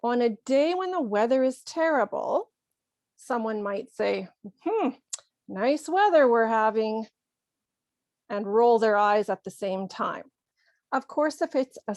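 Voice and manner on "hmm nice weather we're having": mild sarcastic small talk; understated irony after a musing hum. Acted. Someone remarking on terrible weather, mildly sarcastic. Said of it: "we know they're being sarcastic".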